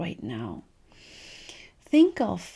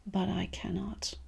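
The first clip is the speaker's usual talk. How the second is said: a hushed, defeated afterthought; resigned whisper; 6 dB quieter than usual. Retold or imitated. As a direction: whisper "But I cannot" like giving up. Quoting the defeated self-talk.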